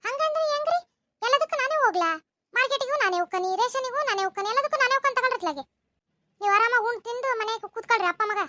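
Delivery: fed-up complaint that builds and speeds up at the end; annoyed scolding. Acted. Wife scolds husband for dodging the ration errand, fed up. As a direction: nag him, building to a fast finish.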